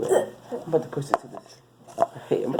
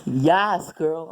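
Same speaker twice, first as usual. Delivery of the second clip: loud, higher-pitched eager agreement; gossipy yes; 4 semitones higher, 6 dB louder than usual. Acted. Girl gossiping behind an ASMR recording, loud and eager. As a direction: blurt it out like a chatting friend. Acted loud background chatter.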